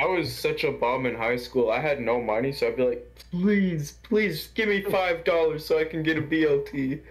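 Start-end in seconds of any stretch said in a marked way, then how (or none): 3.3-7.0 pleading. Retold or imitated. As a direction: plead lightly, stretching out "please". Begging for lunch money, retold.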